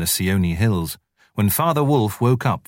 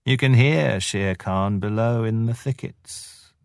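higher, fawning jackal, lightly voiced; sly jackal voice; 3 semitones higher, slower than usual. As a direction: grovel like a sneaky jackal. Jackal taunting slowly.

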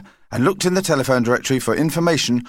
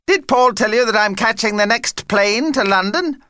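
high, excited character voice lifting into a question; eager vampire; 10 semitones higher, 3 dB louder than usual. Acted. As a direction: announce your plan with high-pitched glee.

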